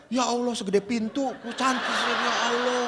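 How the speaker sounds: amazed exclamation through laughter; laughing amazement. Retold or imitated. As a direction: gasp at her size, laughing. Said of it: "kata saya itu".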